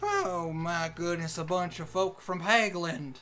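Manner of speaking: slow, stereotyped country Southern greeting; stereotypical Southern accent. Acted. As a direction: ham up an offensive Disney-cartoon Southern accent. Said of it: "really offensive Southern accent".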